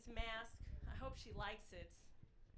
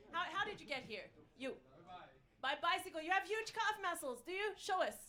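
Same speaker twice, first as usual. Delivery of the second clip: high, loud playful teasing; teasing crowd work; 6 semitones higher, 5 dB louder than usual. Real, not acted. Comic teasing an audience member, high playful voice. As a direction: rib the guy about his calves.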